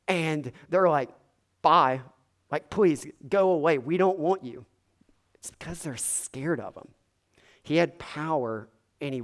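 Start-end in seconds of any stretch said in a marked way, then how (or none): 1.6-4.6 dismissive shove-off. Retold or imitated. Townspeople voiced dismissing Jesus. 5.3-6.9 breathy whispered aside. Real, not acted. Aside, unvoiced.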